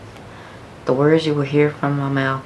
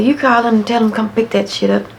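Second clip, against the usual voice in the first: higher, louder firm dad voice; dad ordering; 7 semitones higher, 4 dB louder than usual. Retold or imitated. Dad telling daughter to return the car, higher and firm. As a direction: lay down the order.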